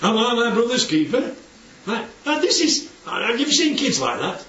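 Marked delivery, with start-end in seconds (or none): 0.1-1.3 insolent. Acted. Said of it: "It's insolence".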